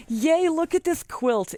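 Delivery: very high-pitched, delighted squeal; gleeful cheer. Real, not acted. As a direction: cheer in a high voice as you show off a prize. Gleeful reveal of the quilt.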